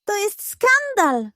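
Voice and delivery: high, hammed-up indignant pug; mock growl. A narrator's reading. Pug grumbling about the cat, hammed-up scandal. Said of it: "warczał pod nosem Budyń".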